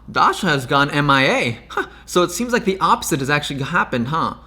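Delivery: laughing mockery. Real, not acted. Laughing while mocking.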